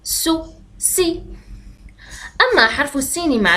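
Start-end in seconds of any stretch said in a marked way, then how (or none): 0.0-1.2 سو and سي slow and stretched; slow letter demo. Shown as a demonstration. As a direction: draw out سو then سي for the class. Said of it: "بهذا الشكل".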